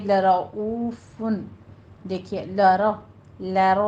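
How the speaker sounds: لَرَ with a full heavy ra. Shown as a demonstration. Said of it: "را پر پڑھی جائے گی".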